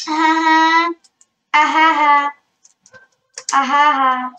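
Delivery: loud burst of laughter. Real, not acted. Gamer laughing at her own fall, loud laughter. Laughs after falling in game.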